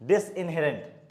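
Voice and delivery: disinherent stretched out very slowly, each syllable clear; slow, careful model word. Shown as a demonstration. Teacher repeating disinherent for students, very slowly. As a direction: sound it out slowly for the class.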